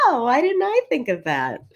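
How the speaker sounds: high, hammed-up sarcastic retort. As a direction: drip with sarcasm. Sarcastic retort to bad advice.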